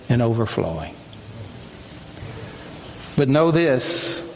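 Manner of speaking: measured reading with long pauses between phrases; solemn devotional reading. Acted. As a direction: read it as God's solemn invitation, phrase by phrase. Reads message in God's voice.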